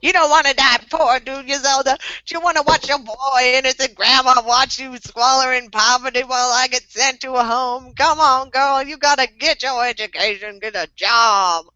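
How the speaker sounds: a hint of a preachy granny; old lady voice. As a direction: lecture like a worried grandma. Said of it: "in my old lady voice".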